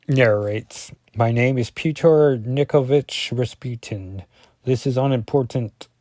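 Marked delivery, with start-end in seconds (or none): 1.1-5.9 put-on Russian accent. Colossus narrating his story in a Russian accent. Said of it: "This is my Russian accent".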